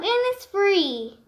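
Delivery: a jolly tossed-off finish; laughing. Acted. Bug welcomes the bird, laughing. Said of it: "laughed the bug".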